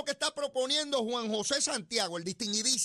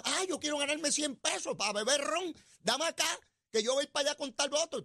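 mock eager volunteer; 6 semitones higher than usual. Mocking an eager money-seeker's quote.

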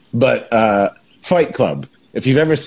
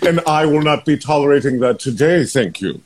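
British cultured voice; 3 semitones higher than usual. Acted. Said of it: "a very high British cultured voice".

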